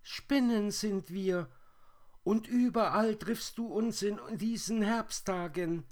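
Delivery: very high, loud spider squeal; shrill calling voice, far above natural pitch; strange high voices. A narrator's reading. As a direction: answer as tiny whirring creatures in chorus. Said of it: "antworteten die fremden Stimmen".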